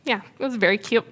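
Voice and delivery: fighting back tears while speaking; real teary-eyed. Real, not acted. Proud mother telling an audience of her son's courage, teary-eyed. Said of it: "I'm gonna get teary-eyed".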